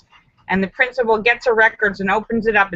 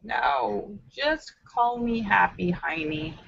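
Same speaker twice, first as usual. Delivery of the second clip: quiet; 7 dB quieter, much slower than usual. Acted. Girl replies, soft and slow.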